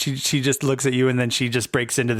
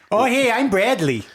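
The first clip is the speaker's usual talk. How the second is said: Bradley; 9 semitones higher, 3 dB louder than usual. Acted. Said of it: "Check out the wizard".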